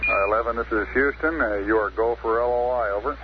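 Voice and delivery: thin radio voice over static; astronaut radio. Real, not acted. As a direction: speak as if through a radio link. Capcom giving go over radio.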